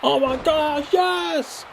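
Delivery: high-pitched delighted outburst; thrilled. Real, not acted. Fan celebrating a wrestler's move, thrilled. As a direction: let it leap up high in real excitement.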